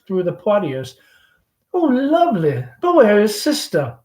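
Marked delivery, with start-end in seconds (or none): 1.7-4.0 lightly voiced chatty Southern belle mother; Southern mother hostess. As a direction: gush over the guest like a fading belle. Amanda looking at supper.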